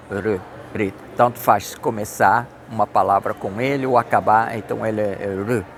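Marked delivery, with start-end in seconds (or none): 0.1-0.9 R said the English way, softer. Shown as a demonstration. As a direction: show the English R. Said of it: "pronunciado R".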